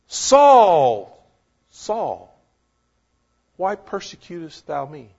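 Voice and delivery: voice of Jesus calling. Retold or imitated. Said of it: "He calls his name twice for emphasis".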